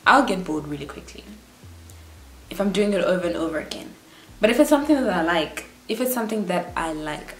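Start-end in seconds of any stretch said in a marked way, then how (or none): 4.4-5.6 hurried, run-together phrase, "something that I like" rushed; speaking too quickly. Real, not acted. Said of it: "I'm speaking so quick". 5.9-7.4 "if it's something that I like" said less hurriedly; slowed-down repeat. Real, not acted. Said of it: "I'm speaking so quick".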